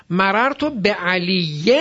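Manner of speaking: "بعلیٍ" very slow, ending in a long -yen; genitive ending. Shown as a demonstration.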